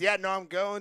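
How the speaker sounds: ordinary delivery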